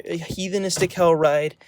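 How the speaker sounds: usual speaking voice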